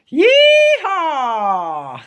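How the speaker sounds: a gleeful cowboy whoop; cowboy yeehaw. Pretend. Child plays cowboy to the book, excited whoop.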